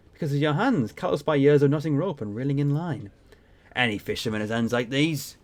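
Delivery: lightly voiced seafaring captain; salty ship captain. Captain answers a stranger in the bar, lightly salty. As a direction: play a proud old sea dog, a little put on.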